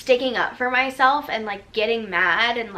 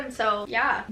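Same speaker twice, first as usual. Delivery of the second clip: ordinary talk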